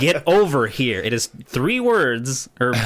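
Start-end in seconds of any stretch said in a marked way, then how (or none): 0.0-1.0 "Get over here" with a mock heavy Asian accent; mock Asian-accented game line; imitating heavy Asian accent. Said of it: "a really heavy Asian accent".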